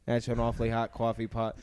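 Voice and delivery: lightly voiced Kennedy Boston accent; JFK impression. Shown as a demonstration. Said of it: "I turn into, uh, J F K".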